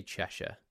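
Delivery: Cheshire with a reduced "shuh" ending; British pronunciation. Shown as a demonstration. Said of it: "and I say".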